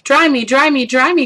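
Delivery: high, whiny chick begging; whiny baby chick. A narrator's reading. The soggy baby chick begs Jack, high and whiny. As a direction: plead like a soggy little chick. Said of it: "cried the soggy baby chick".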